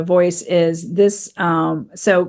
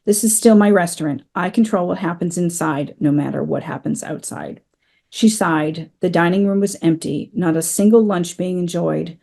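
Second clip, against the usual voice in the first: steady, measured reading of a novel passage; story narration. Acted. Author reading her book aloud to podcast listeners, measured narration. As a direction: read it like the audiobook, unhurried and clear.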